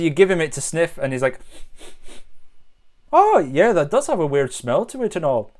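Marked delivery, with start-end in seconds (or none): 3.1-5.5 put-on light Canadian accent, friendly moose; easygoing moose with a hint of Canadian accent. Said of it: "My Canadian immediately turns to".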